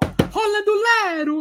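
shrill, piercing, very high-pitched yell. Retelling how a man shouted at the table, retelling a shout. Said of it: "Ele gritando assim na mesa".

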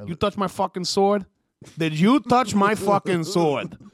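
put-on Italian-American accent in a samurai voice. Playing an Italian samurai character confronting a pilot, in an Italian samurai voice. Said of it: "It's an Italian samurai".

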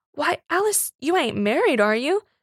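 gasping. Narrator voicing John asking Alice a question: gasped. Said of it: "gasped John".

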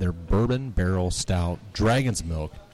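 sexy, sultry reading voice. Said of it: "you wanna read it in your sexy voice".

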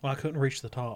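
put-on dead-serious voice. Retelling a friend's answer to an old man at a car wash: imitating a dead-serious reply. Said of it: "He's dead serious".

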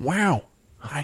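put-on laid-back, drawling delivery. Showing how the impression should start: Owen Wilson impression. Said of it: "You gotta go like".

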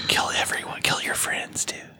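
soft, breathy, hushed whisper, barely voiced. Voicing a talking axe that speaks to the one holding it, whispering. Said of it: "It begins to whisper".

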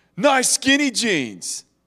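high, mocking, obnoxious taunting yell. Retelling what a drunk driver yelled out in a parking garage, a mocking yell. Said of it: "proceeded to yell out in a very mockingly obnoxious manner".

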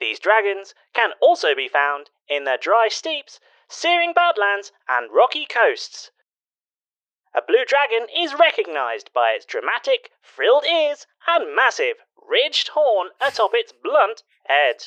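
gadget-like readout voice. The game master reads out the handheld device's entry in an Icosadex voice. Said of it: "The Icosadex sort of suddenly fills with text and a little voice, / The Icosadex sort of suddenly fills with text and a little voice".

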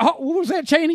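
very high, very loud, shrill, squawking caricature voice. Imitating George W. Bush taking orders from Cheney: imitating George W. Bush. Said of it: "He's like".

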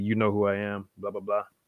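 put-on lightly sarcastic, tongue-in-cheek tone. Retelling a reply to a fan waiting in line: retelling a kinda sarcastic remark. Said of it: "kinda sarcastically".

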